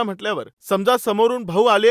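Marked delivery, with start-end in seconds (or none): none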